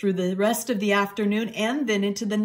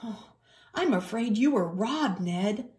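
mildly sorry, slightly higher voice; sad sympathy; 4 semitones higher than usual. Acted. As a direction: break bad news gently. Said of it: "Nicholas said sadly".

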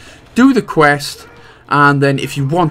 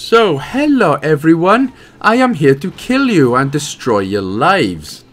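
playful shark villain; 2 semitones higher than usual. Pretend. Greets humans as the killer shark.

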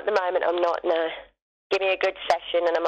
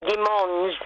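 French pronunciation. Shown as a demonstration. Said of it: "say his name in France".

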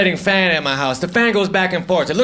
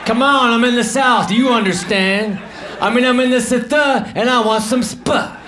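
exasperated mock pleading; 4 semitones higher than usual. Insisting he is in the South.

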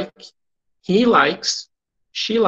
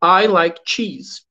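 slow, clear English; slow teacher read for repetition; slow model sentence; much slower than usual. Shown as a demonstration. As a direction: model it slowly for them to repeat.

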